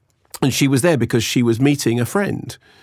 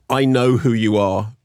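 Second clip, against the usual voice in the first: awed fan; slower than usual. Retold or imitated.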